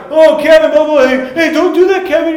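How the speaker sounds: very high, loud mock whining; worked-up protest. Younger brother begging Kevin to stop, loud imitated whine. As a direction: imitate a riled kid shouting at a sibling. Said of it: "And I'd be like".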